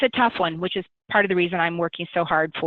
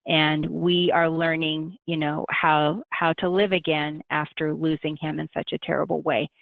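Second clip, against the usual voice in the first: gentle; 2 semitones lower than usual. Retold or imitated. Breaking the son's suicide to an old friend, gently. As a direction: ease the news in gently. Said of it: "I just very gently say".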